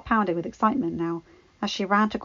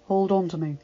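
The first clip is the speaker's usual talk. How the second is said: breathy and serious. Acted. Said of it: "he breathed, suddenly serious".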